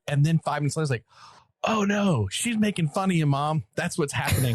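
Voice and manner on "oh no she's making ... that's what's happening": playful dismay, pitched up at first; mock dawning alarm. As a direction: retell a sudden, comic penny-drop. Retold sudden realisation about the daughter.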